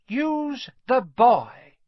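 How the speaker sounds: an eerie echoing master; Voldemort's voice. A narrator's reading. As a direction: otherworldly voice repeating the order. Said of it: "the voice seemed to come from Quirrell himself".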